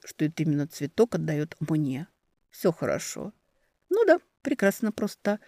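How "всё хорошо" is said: soft reassurance; hushed, gentle «Всё хорошо»; quiet. Acted. Spoken softly, then echoed.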